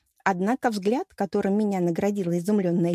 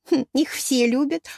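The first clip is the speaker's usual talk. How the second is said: slow, hesitant хм rising, higher; unsure, trying to sound certain; hesitant reply to the warrior; less confidently; 6 semitones higher, 3 dB louder, slower than usual. A narrator's reading. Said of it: "уже менее уверенно ответила я".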